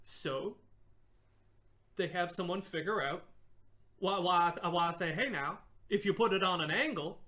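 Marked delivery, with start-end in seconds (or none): 4.0-5.1 put-on southern accent. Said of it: "You can't do a southern accent". 5.1-7.2 put-on southern accent. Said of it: "You can't do a southern accent".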